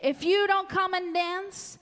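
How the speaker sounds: hammed-up bossy king. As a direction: boom out like a spoiled king. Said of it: "And the king said".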